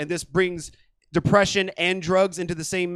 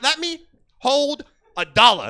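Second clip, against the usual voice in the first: higher, slow, mushy begging; tweaker voice; 8 semitones higher, 4 dB louder than usual. Retold or imitated. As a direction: mumble it like a hot bite in the mouth. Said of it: "all tweakers talk like that".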